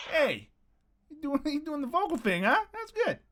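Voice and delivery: hammed-up meathead taunting; mock tough guy. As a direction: tease him like a smug bully. Mocking the singer who confronted him.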